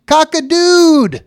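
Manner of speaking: high, loud crow; reading the comic's rooster with a crow. A narrator's reading. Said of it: "a rooster's saying".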